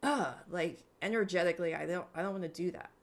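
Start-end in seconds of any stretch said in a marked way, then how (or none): 0.0-0.3 disgusted grunt of refusal; recoiling, acted-out ugh; visceral ugh. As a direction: let out a gut-level ugh. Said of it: "visceral, like".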